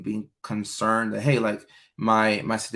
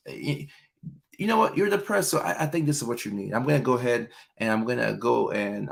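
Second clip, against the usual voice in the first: smothering partner. Retold or imitated. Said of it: "you're like".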